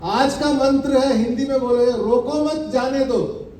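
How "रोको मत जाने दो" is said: "रोको मत" as one unit, then "जाने दो"; group मत with रोको; pause after मत. Shown as a demonstration. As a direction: run रोको into मत, then let जाने दो follow. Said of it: "मतलब कितना अलग हुआ ना".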